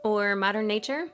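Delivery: upbeat sponsor read over music. Acted. Podcast host reading a hair care sponsor spot, upbeat ad read. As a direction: sell the skincare line like a host ad break.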